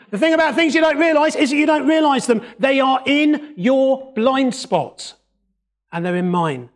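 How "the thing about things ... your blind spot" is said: louder, higher and fast, hammering it home; loud emphatic repeat. Shown as a demonstration. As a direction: say it again like dictating for notes, punchy. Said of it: "Do you want me to say that again so you can write it down?".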